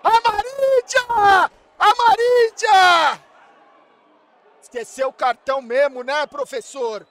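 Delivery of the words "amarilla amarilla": high, loud, slow stretched shout; drawn-out yell. Real, not acted. Streamer cheering a player's name in a long slow yell.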